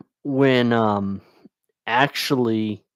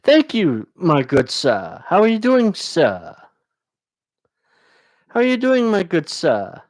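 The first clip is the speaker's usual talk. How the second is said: mock gentlemanly greeting; 4 semitones higher than usual. Streamer greets a viewer as "my good sir", mock-grand.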